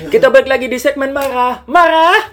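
high, giggling through the intro; laughing. Real, not acted. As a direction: intro line cracking up with laughter. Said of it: "edit mulu". (tertawa sambil membuka segmen)

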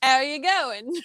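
failed Australian accent sliding into Cockney; Cockney-sounding Australian. Shown as a demonstration. Guest copying the host's Aussie phrase, accidentally Cockney accent. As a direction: attempt Aussie, land in Cockney. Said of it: "Now you sound Cockney".

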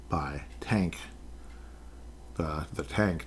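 drops to a sudden whisper; hushed unvoiced aside. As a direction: breathe it as a secret aside. Whispered aside about Tank Dell.

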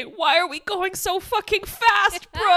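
high, loud, bewildered protest; exasperated outcry. Retold or imitated. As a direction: cry it out in comic disbelief. Reads own exasperated notes aloud.

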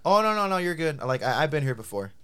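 friendly brush-off starting high and loud; nice, reassuring. Retold or imitated. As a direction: wave it away nicely, settling down. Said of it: "I said it so nicely".

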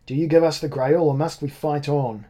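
loud, high challenge across the cellar; calling out. A narrator's reading. Monsorbier shouts his demand across the cellar, loud and high. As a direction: demand the Grail at full voice.

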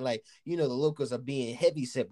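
usual speaking voice

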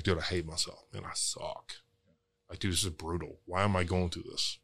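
soft, deflated muttering to himself. Retold or imitated. Talking to himself after losing a deal, soft and defeated. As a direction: sink into quiet self-loathing. Voicing his own self-pity.

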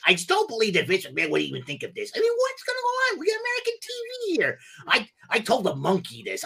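outraged parrot complaining about the boss; Iago impression. Parrot Iago rants about a Saudi WWE buyout. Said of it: "Do an Iago impersonation".

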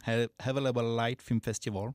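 "Available Light Film Festival" in English with a French accent; self-mocking French accent in English. Real, not acted. Podcast host naming the festival in his French-accented English. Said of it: "en anglais avec mon superbe accent".

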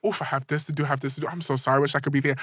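imitating a friend making excuses; mock excuses. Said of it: "Ricky be like".

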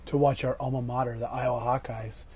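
hoarse voice after shouting at refs; raspy, worn-out voice; smoker's rasp. Real, not acted. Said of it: "I sound like a lifelong chain smoker right now".

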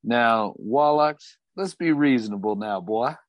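a touch of Southern cowboy warning; a hint of a Southern cowboy accent; Southern drawl. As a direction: talk him down in a Southern drawl. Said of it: "Thornbuckle's accent".

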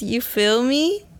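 drawn-out, slow teasing "You feel me?" with a rising end; imitating Lorena. Host teasing her co-host about her catchphrase, slow mock imitation. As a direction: mimic a friend's catchphrase, stretched out. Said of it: "take a shot every time Lorena says".

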